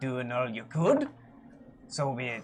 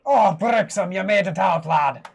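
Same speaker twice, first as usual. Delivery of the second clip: hearty greeting; 4 semitones higher, 10 dB louder than usual. Acted. Cleric greeting old mentor.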